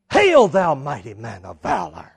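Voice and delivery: grand, booming opening that falls away; angel's hail. Acted. Angel hails Gideon in hiding, grand proclamation. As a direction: hail him like a herald.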